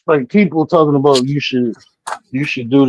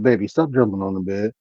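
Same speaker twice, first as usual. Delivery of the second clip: softer retold request to a toddler; gentle parental request; 4 semitones lower, 7 dB quieter than usual. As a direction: tell the child softly, first time. First telling to toddler.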